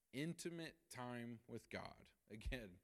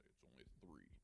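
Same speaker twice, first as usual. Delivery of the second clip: mock tough-guy understatement; 9 semitones lower, 15 dB quieter than usual. Man downplaying pain to therapist.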